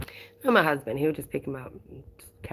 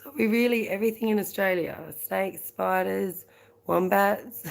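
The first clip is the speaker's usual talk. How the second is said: playful imitation of a Kiwi accent, pitched higher; mock Kiwi accent; 3 semitones higher than usual. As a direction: tease in a hammed-up Kiwi accent. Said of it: "a good Kiwi to say".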